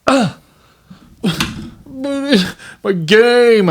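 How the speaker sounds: high, drawn-out mock kid whine; whiny protest. Dad imitating his son asked to let dogs out, whiny. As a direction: imitate a child whining in protest. Son groaning about a chore.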